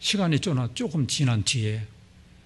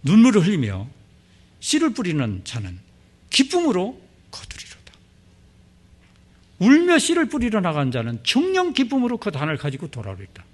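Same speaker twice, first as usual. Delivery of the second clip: louder, higher, proclaimed scripture; preacher proclaims the psalm, louder and fervent; fervent recitation; 5 semitones higher, 5 dB louder than usual. Shown as a demonstration. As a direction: preach the verse with full conviction. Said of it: "여기 분명히 말씀하셨잖아요".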